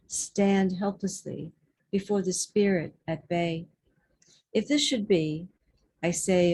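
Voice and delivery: measured, pausing verse recital; deliberate poetry reading with weighted phrases; poem reading. Acted. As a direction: read verse aloud, resting at each line end. Reads a poem aloud.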